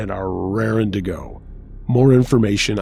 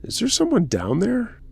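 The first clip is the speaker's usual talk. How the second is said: calling out; 12 semitones higher than usual. A narrator's reading. Dad's friends calling into the toilet, mild calling out. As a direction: call down with a rising, wary question. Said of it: "called out".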